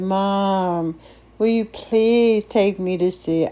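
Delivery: lightly acted teenage begging; a retold, wheedling request; pleading. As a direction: plead with Mom, leaning on please. Teenager begging her mother.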